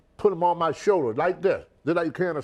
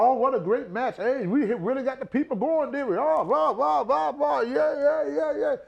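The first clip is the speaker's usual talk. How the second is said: much higher, sing-song mockery; mocking wrestlers; 11 semitones higher than usual. Mocking wrestlers who celebrate while Brody fights for life, high parody. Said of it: "They talking about".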